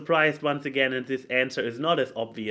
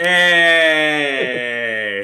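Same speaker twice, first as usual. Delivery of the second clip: loud delighted shout; 10 dB louder than usual. Real, not acted. Reacts to the Lent joke.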